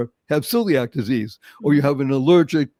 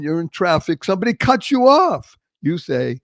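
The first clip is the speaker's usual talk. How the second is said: ordinary talk, nothing marked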